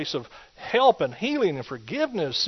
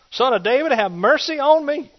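crying out for mercy; 10 semitones higher, 7 dB louder than usual. Acted. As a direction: cry all the more. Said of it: "It says".

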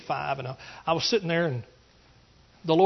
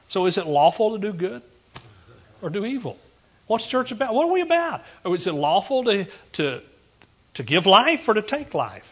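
higher, louder preacher's challenge; preaching at full force; 6 semitones higher, 6 dB louder than usual. Acted. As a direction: hammer the questions at the congregation.

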